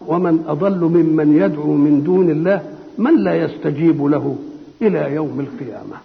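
slow, measured recitation that sinks low at the end; Quranic recitation. Acted. A preacher recites the verse to his audience, slow and solemn. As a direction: intone the verse reverently and slowly.

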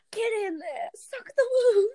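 high-pitched, laughing hard; laughing quote. Retold or imitated. Podcaster quoting kids at the wound, laughing high. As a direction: squeal it through laughter.

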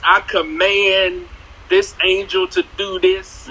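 slow, drawn-out "I command" in mild parody; a hint of a domineering prayer; mock dominant command. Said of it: "aggressive and dominant".

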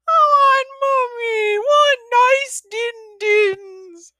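very high, loud, slow crying squeal; high drawn-out baby wail; wailing toddler. Acted. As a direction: sob like an upset baby. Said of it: "Billy Bob's piercing squeals".

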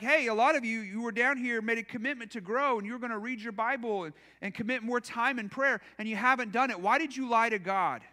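earnest guilt-tripping rebuke; serious harsh accusation. Shown as a demonstration. Pastor seriously accusing the church of lying to God, understated harshness. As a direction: say it straight, as if you mean it. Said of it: "seriously said something like this".

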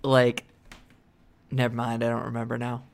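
foggy stoner drift; stoned. Real, not acted. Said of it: "I'm stoned and drunk".

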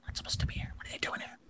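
hushed kobold whisper; whispered exchange. Acted. Receptionist whispering to Sela about the strangers, hushed. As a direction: breathe it out secretly. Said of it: "this little whispered exchange".

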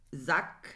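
"Sack" with a short vowel and hard final K; mispronounced with K. Shown as a demonstration. Co-host trying the Turkish word, mispronounced "Sack" with a hard K. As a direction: say "Sack" like the German word, ending in K. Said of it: "Nee, mit G".

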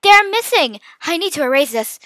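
urgent, starting high and loud then easing; scold, then turn to fixing it. A narrator's reading. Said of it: "I scolded".

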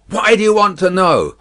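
high, loud suspicious demand; guard's loud rebuff; shouted challenge. A narrator's reading. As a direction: question the stranger warily at volume. Guard challenges unseen rider.

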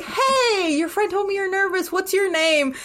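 lightly voiced sweet celebrity greeting. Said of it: "And she's like".

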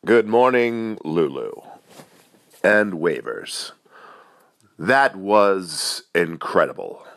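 deliberate, slightly hammed-up praise in a mock reaction; second imagined admirer. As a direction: play another listener praising with measured pauses. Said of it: "Next reaction".

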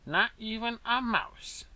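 slow, high mouse voice; high, drawn-out line from a tiny mouse; high-pitched little voice. A narrator's reading. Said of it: "in his high-pitched little voice".

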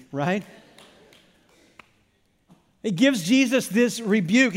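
ordinary delivery

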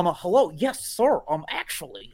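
hammed-up, stiffly proper white-guy voice; impersonated white person. Comics impersonating a white person, caricature voice. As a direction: pitch up into a caricature of politeness. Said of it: "they're impersonating a white person".

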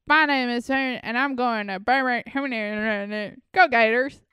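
a hint of a Southern college girl; Southern accent. Friend imitates TikTok girls in a light Southern accent. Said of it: "girls making fun of them".

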